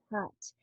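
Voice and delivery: "hot" launched on a strong exhale; breathed H. Shown as a demonstration. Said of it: "breathe air out".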